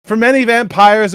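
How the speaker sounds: normal talking voice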